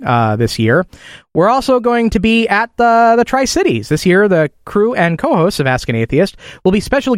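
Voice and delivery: brisk, lifted radio host delivery; announcer read. Acted. Host welcomes listeners back with event news, announcer read. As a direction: read out the show's announcements clearly.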